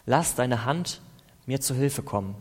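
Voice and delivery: earnest, pleading psalm prayer; impassioned prayer reading; fervent prayer. Acted. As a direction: plead with God through the psalm.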